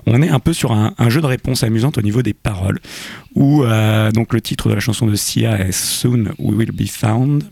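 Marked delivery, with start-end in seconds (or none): 5.7-7.4 English title said with a light French accent; a touch of French accent on English. Shown as a demonstration. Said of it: "Excusez mon accent anglais".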